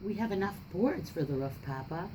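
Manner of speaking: put-on lively read-aloud for children; story narration. A narrator's reading. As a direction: read the picture book to the class, with voices. Reads picture book to class.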